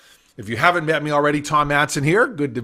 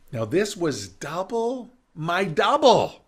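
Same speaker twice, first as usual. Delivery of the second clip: ordinary talk, nothing marked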